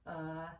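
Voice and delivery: UH drawn out like a hesitation; a lazy schwa UH; thinking sound. Shown as a demonstration. Teacher explaining schwa to class, UH as a thinking sound. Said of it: "they're using their thinking sound".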